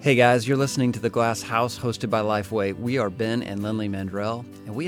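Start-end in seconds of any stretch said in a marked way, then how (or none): none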